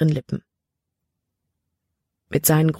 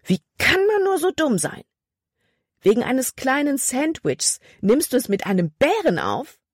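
high, furious scolding shout; angry yell; 9 semitones higher than usual. A narrator's reading. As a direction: berate her at full voice. Caleb yelling at Libby.

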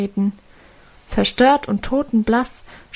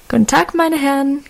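cheerful greeting; 4 semitones higher than usual. Acted. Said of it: "grüßte sie munter".

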